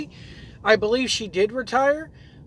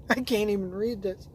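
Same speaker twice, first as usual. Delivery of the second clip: laughing; 7 dB quieter than usual. Real, not acted. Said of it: "I'm laughing so hard".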